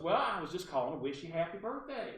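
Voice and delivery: Barbara Delano. Retold or imitated. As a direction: put on her accent for a birthday greeting. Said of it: "I have to use her accent".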